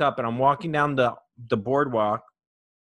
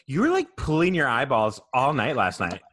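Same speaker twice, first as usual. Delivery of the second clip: mocking shout. Mocking a friend the next morning.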